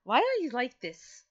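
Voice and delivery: loud, drawn-out exasperated plea. Acted. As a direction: wail it in comic frustration. Exasperated by Gadry's pun teasing.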